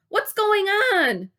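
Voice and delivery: high, loud and slow; yelled question. Acted. Wally asking Gary what happens, slow loud call. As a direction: call out slowly, straining to see. Calling out from the branch.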